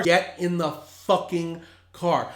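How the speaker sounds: slow, firm, each word spelled out; slow firm demand. Retold or imitated. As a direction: lay down the law slowly. Repeated command, slower.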